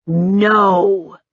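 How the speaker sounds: slow. A narrator's reading. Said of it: "pronouncing the word slowly".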